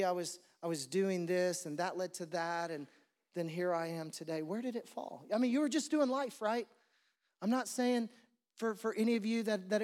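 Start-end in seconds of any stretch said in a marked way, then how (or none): 4.4-5.3 soft question. Retold or imitated. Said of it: "It wasn't a shout".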